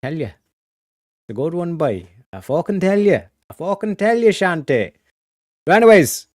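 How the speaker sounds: played-up Irish banter; Irish accent. Shown as a demonstration. Streamer joking back about the accent, played-up Irish accent. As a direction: lean into a wee Irish accent. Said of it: "that wee little Irish accent".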